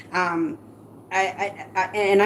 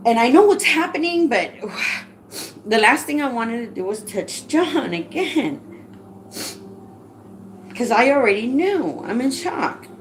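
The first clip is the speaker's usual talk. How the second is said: panicked pleading; 4 semitones higher than usual. Retold or imitated. Panicked reply to 911 operator.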